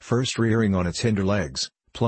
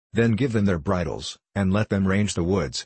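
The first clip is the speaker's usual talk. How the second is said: ordinary delivery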